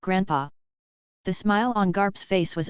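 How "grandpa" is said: put-on childish voice. A narrator's reading. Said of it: "A childish voice comes out of his mouth".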